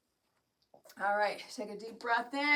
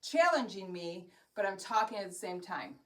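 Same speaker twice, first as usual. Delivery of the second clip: breathless talk mid-workout; winded, talking through exertion; out of breath; 3 semitones lower, 5 dB quieter than usual. Real, not acted. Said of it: "if I really sound like I'm out of breath".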